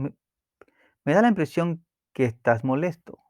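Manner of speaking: calm and unjudging; name the feeling gently, no blame; calm, tranquil. Shown as a demonstration. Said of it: "Hay que decírselo tranquilo".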